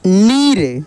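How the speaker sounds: नीर with a long ī that rises and falls; drawn-out long ī. Shown as a demonstration. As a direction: stretch the ī in नीर. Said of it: "खींच कर किया जाता है". (नीर की ई खींच कर)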